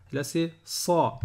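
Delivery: "sa" said slow and emphatic, pharyngealized. Shown as a demonstration. Teacher contrasting two s letters, slow emphatic "sa". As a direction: stretch "sa" with a dark, heavy s. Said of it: "En mode énervé".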